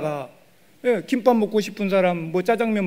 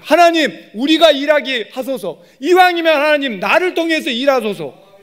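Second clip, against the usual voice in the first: higher, louder pleading to God; fervent prayer; 6 semitones higher, 5 dB louder than usual. Shown as a demonstration. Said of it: "또 이렇게 기도해야 돼요".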